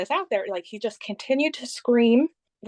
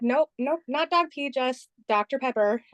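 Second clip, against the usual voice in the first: retold indignant correction; 4 semitones higher than usual. Retold reply correcting the manager.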